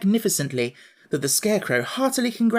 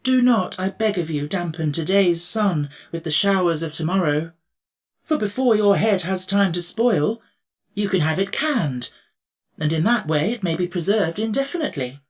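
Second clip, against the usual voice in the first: higher, gently coaxing emperor; kindly, sympathetic; 3 semitones higher than usual. Acted. Emperor reassuring the Pumpkinhead, kindly. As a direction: soothe a frightened friend. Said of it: "in a kindly, sympathetic tone".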